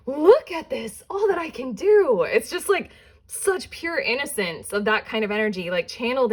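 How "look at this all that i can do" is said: put-on proud child.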